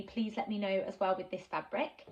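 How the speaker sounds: usual speaking voice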